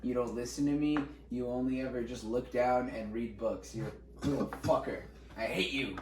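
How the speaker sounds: low, grumbled imitation of a bitter teacher; mock teacher's loathing. Teacher scolding a kid who reads books, mock resentment.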